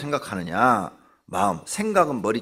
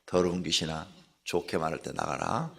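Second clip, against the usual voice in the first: lower, softer, half-hearted rebuke; mock timid command; 6 semitones lower, 7 dB quieter than usual. Shown as a demonstration. Preacher mimicking the congregation's meek prayer, softly. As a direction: mimic a weak, polite exorcism. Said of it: "내가 흉내를 내드릴게요".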